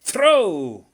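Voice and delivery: loud barked order; ringing command. A narrator's reading. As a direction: fire off the command. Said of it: "The command rang out".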